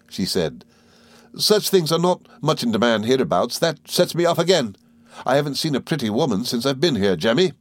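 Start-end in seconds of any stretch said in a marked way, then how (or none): 1.4-7.5 high, quick, chattering little woman; Miss Mowcher voice. Acted. Mowcher chattering to the boys, high and merry. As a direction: rattle on like a gossiping dwarf.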